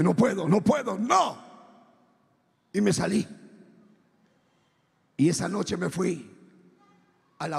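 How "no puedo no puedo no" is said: emphatic refusal. Retold or imitated. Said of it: "Y dije".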